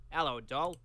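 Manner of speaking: badly faked New Zealand greeting; mock New Zealand accent, not convincing; terrible New Zealand accent. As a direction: have a weak stab at a New Zealand accent. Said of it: "that's terrible".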